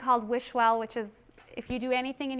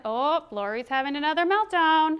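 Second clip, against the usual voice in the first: mock judgmental; 5 semitones higher than usual. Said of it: "not judging you as the bad kid".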